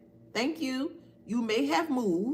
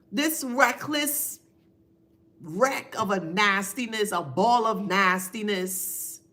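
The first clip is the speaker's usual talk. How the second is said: ordinary delivery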